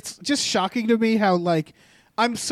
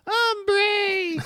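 high, drawn-out grizzled cowboy; 12 semitones higher than usual. Pretend. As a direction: stretch it like a weary gunslinger. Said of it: "do it in a grizzled voice".

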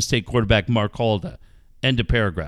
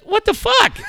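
retold yell. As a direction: bark it like the boss caught off guard. Ted yelling in retold story.

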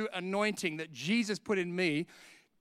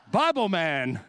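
louder, amused aside; laughing quip; 7 dB louder, slower than usual. Real, not acted. Preacher mocking himself as Bible man, laughing quip. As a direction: toss it off, still laughing.

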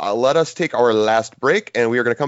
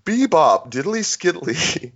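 after laughing hard; 5 semitones higher, slower than usual. Real, not acted. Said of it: "Oh, my cheeks hurt".

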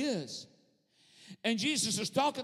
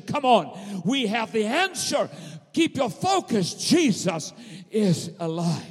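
rousing preaching; 4 dB louder than usual. Acted. Preacher telling of a rescued nation, rousing preaching. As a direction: build up like a preacher to a strong finish.

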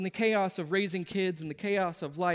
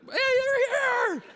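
slow hammed-up welcome; 7 dB louder, much slower than usual. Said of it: "I know it's an act".

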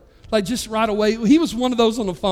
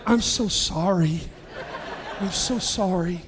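slow, low mock sympathy; mock condolence; 5 semitones lower, 4 dB quieter, slower than usual. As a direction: draw out a teasing apology. Mock condolence for living in New Hampshire.

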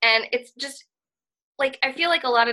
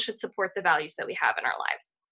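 whispering; 4 semitones lower, 6 dB quieter than usual. Real, not acted. Repeated point, whispered.

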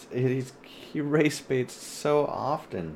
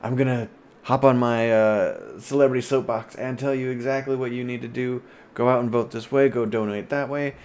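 louder, preachy mock lecture; hammed-up soapbox lecture, louder; mock preachy celebrity; 2 semitones higher, 6 dB louder than usual. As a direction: sermonize like a smug star.

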